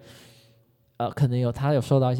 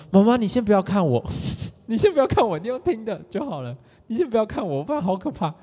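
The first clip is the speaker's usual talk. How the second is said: pleading with the mom; 7 semitones higher than usual. Retold or imitated. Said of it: "我就说".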